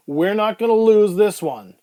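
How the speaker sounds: emergency urgency, voice pushed up; urgent paramedic. Acted. Paramedic urgently rallies over patient.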